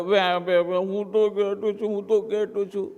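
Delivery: soft, tearful bleating; crying bleat. Acted. Scared cub crying to the lion, softly. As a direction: whimper like a frightened lamb. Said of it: "વધારે રડવા માંડી ગયો".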